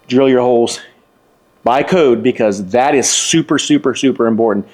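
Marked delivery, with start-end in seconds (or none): 2.2-4.7 each super leaned on harder; stress on super. Real, not acted. Electrician stressing to viewers, super pressed hard. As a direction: hammer the word super home. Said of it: "I emphasize the word super".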